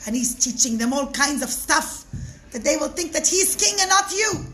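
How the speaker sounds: whisper-free but urgent tattling to the king; tattling schemers. Acted.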